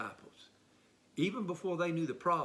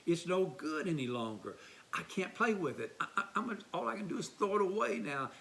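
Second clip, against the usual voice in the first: put-on upset child; 5 semitones higher than usual. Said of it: "He's crying".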